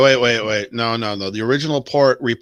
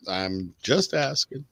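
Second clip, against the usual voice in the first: muttered repeat; 7 dB quieter than usual. Real, not acted. Repeats it under his breath.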